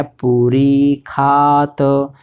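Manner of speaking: "खात" said slowly with a drawn-out kha; Sanskrit pronunciation. Shown as a demonstration. Teacher showing students the Sanskrit sound, slow careful pronunciation. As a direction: stretch the long vowels in "पूरी खात". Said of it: "शा को खा बोलते हैं".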